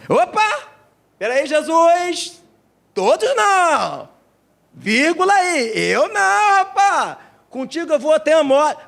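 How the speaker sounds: high, slow, protesting Peter voice; indignant Peter. Acted. Peter protesting to Jesus, high and indignant. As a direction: drag out each protest in disbelief.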